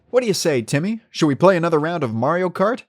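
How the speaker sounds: put-on high, loud excited kid; eager kid voice. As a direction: ask like an excited child. Imagined kid inviting friend Timmy.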